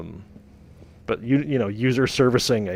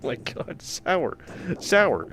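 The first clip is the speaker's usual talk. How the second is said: holding back a scream; 5 semitones higher, much slower than usual. Real, not acted. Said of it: "I'm trying not to scream right now".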